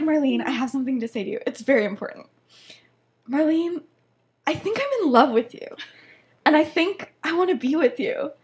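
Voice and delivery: mock-earnest declaration with staged pauses; rehearsed love confession. Sirius fake-confesses to Marlene, mock-earnest. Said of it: "this is very rehearsed".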